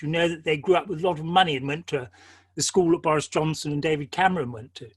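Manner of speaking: posh English accent. Shown as a demonstration. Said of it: "if they talk like this".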